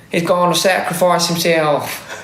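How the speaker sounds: slow, drawn-out meme voice; quoting the meme slowly and solemnly; meme quote. Retold or imitated. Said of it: "do you know that meme?".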